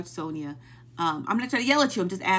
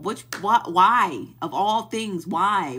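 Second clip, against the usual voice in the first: louder, exasperated demand; exasperated why; 6 dB louder, slower than usual. Real, not acted. Ranting about Trina's incense, loud exasperated why. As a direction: throw up your hands and shout why. Baffled shouting at absent Trina.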